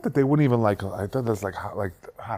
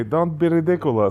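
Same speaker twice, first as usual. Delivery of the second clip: Balky; 6 semitones higher than usual. Retold or imitated. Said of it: "when the guy would say".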